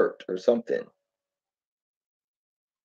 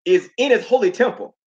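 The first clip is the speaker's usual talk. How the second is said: put-on higher, louder old-lady preaching, breaking into a laugh; quoting grandma; 9 semitones higher, 3 dB louder than usual. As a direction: proclaim it like grandma did, laughing through the end. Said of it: "she would quote".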